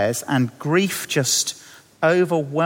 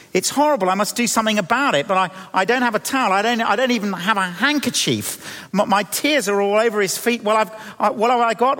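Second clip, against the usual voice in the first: higher, hurried, stammering mild panic; flustered dismay; 3 semitones higher, faster than usual. Acted. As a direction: act out her scramble for something to dry with. Acting the woman's dismay at unwashed feet.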